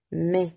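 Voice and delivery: MAIS said short, as "mé"; closed E. Shown as a demonstration. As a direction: keep the vowel of MAIS closed and brief. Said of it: "Le son est fermé". (MAIS avec un é fermé)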